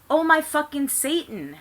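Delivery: high, hammed-up outburst; overacted shocked shout; mock shout. A narrator's reading. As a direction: shout it like a melodrama. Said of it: "Harry shouted".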